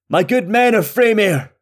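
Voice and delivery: high, loud rallying call; shouted command. A narrator's reading. King addressing his men of Freymere, shouted command. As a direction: call out to the troops as their king.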